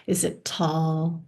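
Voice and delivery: measured delivery with long pauses for imagining; unhurried guide, leaving space after each prompt; guided meditation. Real, not acted. Teacher leads listeners through imagining a white palace, guided meditation.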